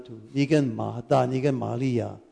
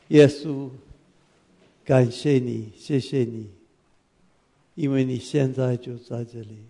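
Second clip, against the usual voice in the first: prayer; 2 semitones lower than usual. Acted. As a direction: pray over the room, pausing between phrases. Pastor leads congregation in prayer.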